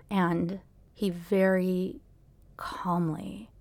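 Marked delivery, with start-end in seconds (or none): 1.1-3.5 calm. Retold or imitated. Mimics his calm while describing it.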